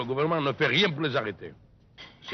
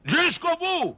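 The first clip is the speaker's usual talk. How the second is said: much higher, louder repeat; 4 dB louder, much slower than usual. Real, not acted. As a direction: call it out so they finally hear.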